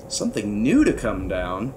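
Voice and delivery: low, hushed astonished question; taken aback, voice dropped; gasped disbelief. A narrator's reading. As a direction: echo it in stunned disbelief. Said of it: "Bartholomew gasped".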